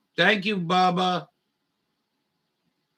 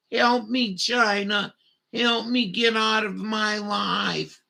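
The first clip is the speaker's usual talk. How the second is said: mock pleading; 5 semitones higher than usual. Mocking US plea to China.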